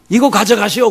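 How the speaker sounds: loud, high push of the money; loud gangster handing back the cash; gruff offer. Retold or imitated. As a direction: thrust it at them.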